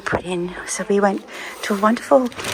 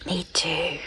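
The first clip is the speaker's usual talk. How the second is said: whispering on the phone; 3 semitones lower, 8 dB quieter than usual. Real, not acted. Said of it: "I have to whisper".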